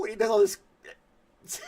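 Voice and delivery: high, slow, loud wailing impression; mock crying pepper guy. Imitating the chili guy's wailing for the stream, high and loud. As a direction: cry out high as the burning pepper eater. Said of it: "I can't impersonate it".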